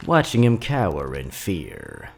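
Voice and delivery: a hint of a grandma gathering her grandchildren round; old grandma storyteller. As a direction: tell it like a folksy old grandmother to the kids. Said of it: "Grandma Millie got an old tale to tell ya".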